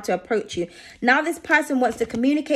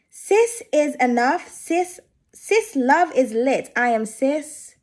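much slower, every word of the card spelled out deliberately; careful slow reread; much slower than usual. Real, not acted. Tarot reader carefully rereading the card for viewers, very slow. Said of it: "written in, like, an American twang".

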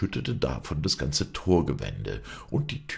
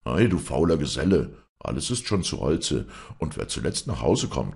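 angry scolding; 3 dB louder than usual. Acted. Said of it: "schrie ihn sein Herr an".

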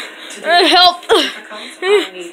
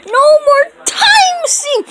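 frustrated shout; 10 semitones higher than usual. Pretend.

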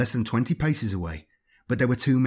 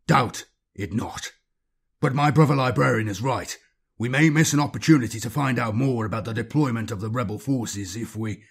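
iron voice. Acted. Captain defending his librarian against the inquisitor, iron voice. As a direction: cut him off with iron authority.

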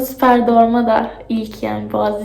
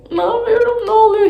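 panicked; 11 semitones higher than usual. Retold or imitated. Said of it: "dedim ki".

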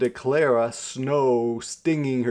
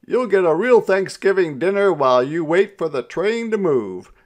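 enthusiastic persuasion; 8 semitones higher, 9 dB louder than usual. A narrator's reading. Jones persuading Mama in story.

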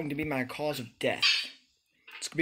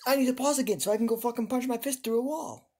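high, loud furious rant; real rage; 9 semitones higher, 4 dB louder than usual. Real, not acted. Streamer raging at the game, high furious rant. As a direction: vent real fury at the game.

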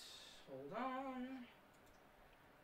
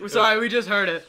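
laughing; 5 semitones higher, 10 dB louder than usual. Real, not acted. Laughing after loud clip.

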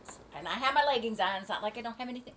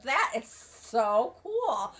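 amazed; 2 semitones higher, 7 dB louder, much slower than usual. Retold or imitated. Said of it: "I'm like".

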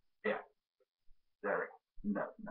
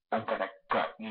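Scream Three Ghostface voice. Pretend. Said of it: "C and D".

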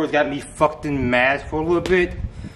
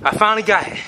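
excited; 7 semitones higher, 4 dB louder, faster than usual. Real, not acted. Finally lands the trick.

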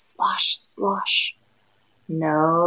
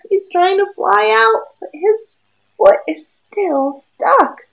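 higher, louder urgent telling; straining excitement; 10 semitones higher, 5 dB louder than usual. A narrator's reading. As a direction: push it up as the duck struggles. Duck strains to fly.

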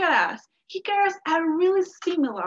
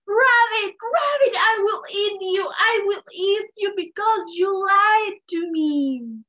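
high, loud furious yell; angry screaming; 6 semitones higher, 6 dB louder than usual. Acted. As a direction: roar your threat after the liar. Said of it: "started screaming".

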